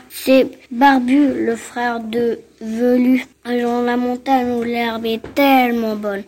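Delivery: grosse voix grave de bouc; voix de grand bouc. Acted. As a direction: parle comme un gros bouc sûr de lui. (grosse voix de bouc)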